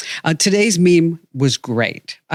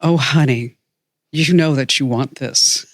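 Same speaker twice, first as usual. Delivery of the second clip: Leslie's sexy voice. Retold or imitated. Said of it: "in a completely erotic, sexy voice".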